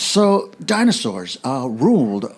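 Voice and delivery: slow, halting attempted impression; Christopher Walken. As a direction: hold back and stretch the words. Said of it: "I'm doing Christopher Walken".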